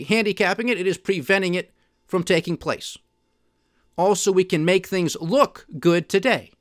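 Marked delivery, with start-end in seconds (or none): 4.3-6.5 "look" leaned on and set apart from "good"; stress on "look". Real, not acted. Warning that things only appear good, stress on "look". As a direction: put the weight on "look". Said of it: "I have to stress the word look".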